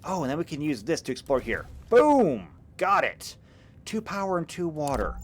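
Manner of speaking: eager gamer calling out the win; excited planning. Real, not acted. Excited while planning game moves.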